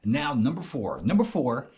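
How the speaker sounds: low hushed voice; quiet at night. Real, not acted. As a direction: speak softly so no one wakes. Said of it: "trying to keep my voice kinda low".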